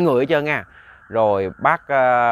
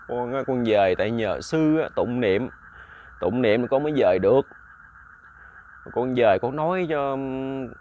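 tearful ghost voice. Acted. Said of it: "khóc nhiều lắm".

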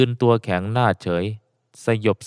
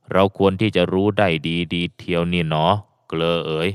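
put-on old man's voice; 4 semitones lower than usual. Old man speaks to old friend.

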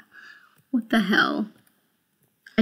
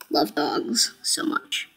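soft whisper; 5 semitones lower, 6 dB quieter, much slower than usual. Real, not acted. Tender aside about dogs.

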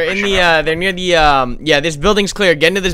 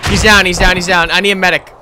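man down shout; 3 semitones higher, 6 dB louder than usual. Real, not acted. Callout after a kill.

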